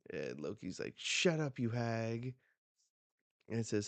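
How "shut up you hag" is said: higher, mildly heated snap back; lightly acted outburst; acted bratty retort. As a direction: play an angry kid hurling an insult. Voices Loki's angry insult.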